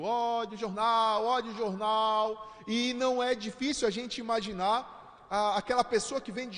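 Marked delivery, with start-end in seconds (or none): 0.0-2.6 lightly acted street seller's call; drawn-out mock call, held on one tone; newspaper delivery man's cry. Preacher recalls the Sunday paper delivery, imitating his drawn-out cry. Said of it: "ia um entregador gritando".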